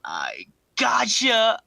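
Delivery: high, slow, crying-laugh mock voice; Lloyd's prank reveal. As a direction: drag it out, cracking up.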